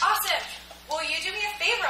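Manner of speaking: high, bright-eyed eager ask; acted-out high-pitched enthusiasm; excited friend imitation. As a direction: chirp it as a thrilled friend. Retells friend's excited request.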